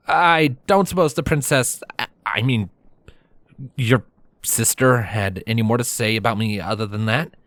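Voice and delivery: tentative, halting hopeful question. Acted. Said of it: "I asked hopefully".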